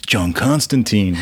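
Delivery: put-on slow, deliberate "Constantine" ending in -teen; Keanu Reeves. Proving it from the film, slow "Constantine" ending -teen. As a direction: stretch out "Constantine", last syllable like "seen". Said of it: "in Keanu Reeves, he said".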